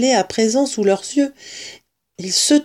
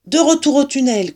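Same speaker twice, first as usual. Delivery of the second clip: brisk order in a higher voice; raised-pitch, firm command; 6 semitones higher, 3 dB louder, faster than usual. A narrator's reading. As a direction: send them back with authority. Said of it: "commanda-t-il".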